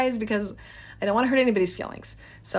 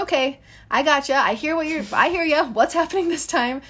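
weary reply to bird; 6 semitones higher than usual. Retold or imitated. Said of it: "And I'm like".

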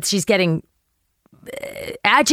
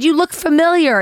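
higher puzzled voice; imitating the dazed hiker; confused old woman; 8 semitones higher, 3 dB louder than usual. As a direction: squint at a half-known face. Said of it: "she said".

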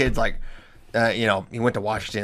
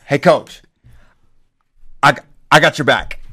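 put-on louder, fired-up country boy promising loyalty; loyal kid; 5 dB louder than usual. Kid wrestler pledges loyalty to coach, fired up and loud. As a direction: call it out like a kid backing up his coach.

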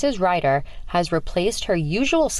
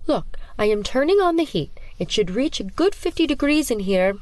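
sinister teacher; 7 semitones higher than usual. Acted. Teacher mocks with cold classroom.

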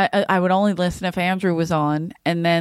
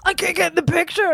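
whiny voice; 9 semitones higher than usual. Retold or imitated. Retold whiny complaint.

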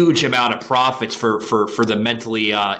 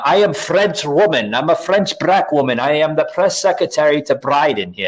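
mock French accent, lightly put on; hammed-up fake French accent; Karine Jean Pierre fake French accent; 4 semitones higher than usual. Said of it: "the, the fake French".

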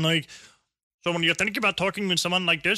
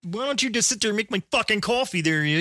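put-on Canadian accent; 3 semitones higher than usual. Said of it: "with a Canadian accent".

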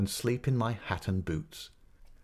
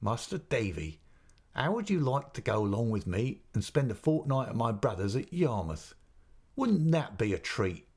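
coaxing; 2 semitones higher than usual. Acted. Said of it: "said coaxingly".

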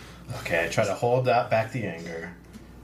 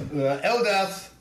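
grand warrior proclamation; 4 semitones higher, slower than usual. Acted. Craggle's grand in-character threat.

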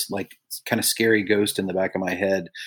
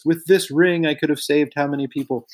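Schindler's List parody; 4 semitones higher than usual. Retold or imitated. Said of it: "like the end of Schindler's List".

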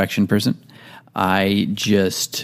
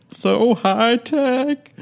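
very high, slow, stretched squeak; squeaky high voice; much slower than usual. Pretend. Exaggerated repeat, very high.

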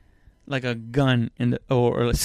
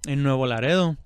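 Spanish accent; faster than usual. Shown as a demonstration. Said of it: "I really thickened that accent on that one".

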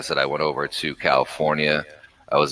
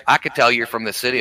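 mimicking the girl's voice, pitched up high; high-voiced girl imitation; 8 semitones higher than usual. Imitating a Southern girl teasing him about sounding like the city. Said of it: "She's like".

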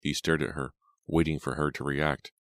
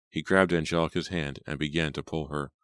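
usual speaking voice

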